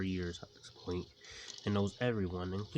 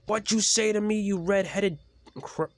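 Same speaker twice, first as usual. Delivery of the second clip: much higher, loud furious challenge; angry insult; 12 semitones higher, 7 dB louder than usual. Acted. Swedish engine squaring up to James, high loud fury. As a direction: rise up to start a fight.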